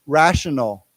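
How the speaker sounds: "rational" set apart and said clearly; word modelling. Shown as a demonstration. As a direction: model "rational" for learners to echo. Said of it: "Why don't we say it".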